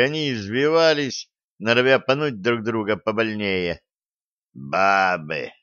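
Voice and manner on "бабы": low, condescending rumble; condescending boom. Acted. Convict sneers at the brawling girls, low and condescending. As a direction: drone it with lazy scorn. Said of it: "снисходительно прогудел зэка".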